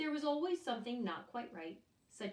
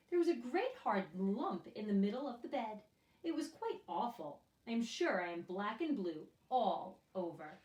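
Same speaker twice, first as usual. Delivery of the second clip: princess voice; 4 dB louder than usual. Acted. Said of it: "she replied".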